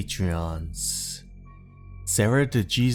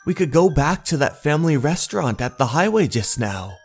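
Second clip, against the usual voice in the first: higher-pitched, quick apologetic character; hesitant request; 6 semitones higher, faster than usual. Acted. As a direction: politely ask to go and eat first, voice lifted. Story character making a nervous request.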